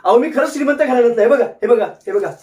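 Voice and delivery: frantic protest. Acted. Frantic claim of being rich.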